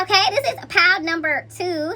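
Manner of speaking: slightly winded, catching her breath. Real, not acted. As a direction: talk while a little out of breath. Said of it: "sorry guys, I'm a little winded".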